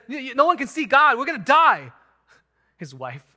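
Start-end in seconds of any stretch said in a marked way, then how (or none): 0.1-1.9 panicked, much higher and louder stammer; freaking out. Retold or imitated. Manoah realizing he has seen God, hammed-up panic. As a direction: cry out in mock terror of death. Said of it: "he begins to freak out".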